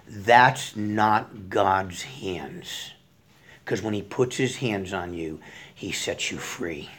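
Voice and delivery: low, hushed, softly earnest preaching; quiet assurance. Real, not acted. Preacher assuring those in bondage that God frees, quiet sincerity. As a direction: drop low and soft, with settled certainty.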